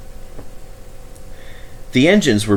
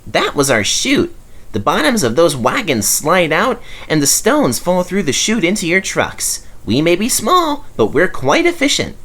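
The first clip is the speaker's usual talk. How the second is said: small engine voice; 9 semitones higher than usual. A narrator's reading. Rex explains proudly.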